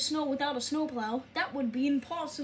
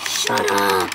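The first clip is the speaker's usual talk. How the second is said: loud, rough outburst; angry yell; 11 dB louder than usual. Acted. Teased engine snapping back, loud angry yell. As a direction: explode at the teasing. Acted quarrel with teasing character.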